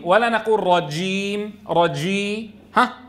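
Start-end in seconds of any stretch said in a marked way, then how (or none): 0.7-2.5 رجيم with lips pushed round on ج; rounded-lip jeem. Shown as a demonstration. Teacher shows what not to do, lips rounded on ج in رجيم. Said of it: "لا نضم الشفتين في الجيم".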